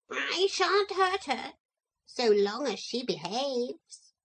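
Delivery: calm and firm; lightly voiced parrot. A narrator's reading. Parrot to the children, calm firmness.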